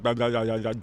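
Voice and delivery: Cockney babble, words run together; Cockney gibberish. Shown as a demonstration. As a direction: imitate tongueless Cockney mumbling. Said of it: "they kinda talk like".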